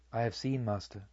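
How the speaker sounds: a shaken, soft admission; barely able to answer, quiet and low; hushed disciple, shaken by the vision. A narrator's reading. Disciple shaken after vision of hell.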